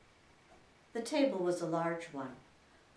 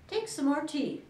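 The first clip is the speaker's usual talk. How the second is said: earnest; 10 semitones higher, 7 dB louder than usual. A narrator's reading. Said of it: "very earnestly".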